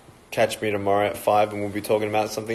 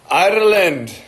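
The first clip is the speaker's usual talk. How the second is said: excited shout-out; 8 semitones higher, 5 dB louder than usual. Real, not acted.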